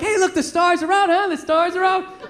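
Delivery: put-on mildly eager small talk with a kid; trying to be social. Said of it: "trying to be social with the kid".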